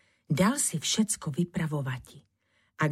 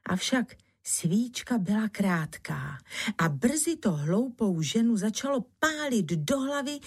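ordinary delivery, nothing marked

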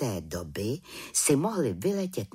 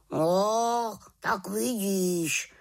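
slow, high raven croak of told-you-so; a smug raven croaking; slow croaked tak vidíš; 7 semitones higher, much slower than usual. Acted. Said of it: "krákal Havran".

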